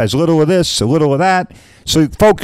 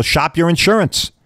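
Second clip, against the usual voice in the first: radio slogan voice; 4 semitones higher than usual. Retold or imitated. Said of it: "I used to say, uh, on the radio".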